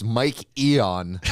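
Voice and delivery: "Mike Eon" as "Mike EE-on" in place of "Mike Eaton", with a laugh; slow "Mike Eon", laughing at the wrong name; misspelled name. Retold or imitated. Teasing his friend about a misspelled search, says "Mike Eon" slowly while laughing. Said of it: "Spelled my name wrong".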